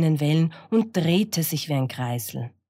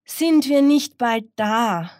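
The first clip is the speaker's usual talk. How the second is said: impatient hen; 8 semitones higher, 5 dB louder than usual. Acted. Hen impatiently asks about arrival.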